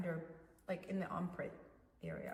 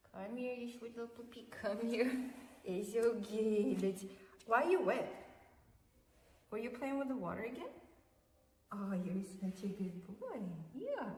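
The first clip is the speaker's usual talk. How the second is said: talking to a dog. Real, not acted. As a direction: sweet-talk the puppy closer. Cooing to wet dog.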